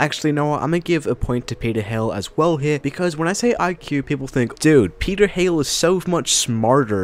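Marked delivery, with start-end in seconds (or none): 4.6-7.0 horrible, slow, put-on American accent. Voicing what people think about peter hale, in a horrible american accent. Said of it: "That's a horrible American accent".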